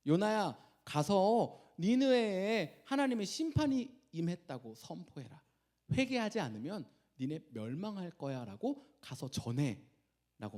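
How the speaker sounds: lightly voiced God calling his prophet; God's command. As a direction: issue a solemn charge, lightly acted. Voicing God's command to Jonah.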